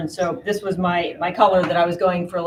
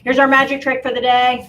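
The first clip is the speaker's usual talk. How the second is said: announcer voice; 5 semitones higher, 8 dB louder than usual. Acted. Showman announcing magic trick.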